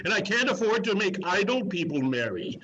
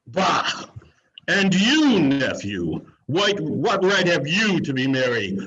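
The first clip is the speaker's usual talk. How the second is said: louder, cross demand at the nephew; angry scolding; 6 dB louder than usual. Acted. Miser scolding his cheerful nephew, loud and cross. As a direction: scold him for daring to be cheerful.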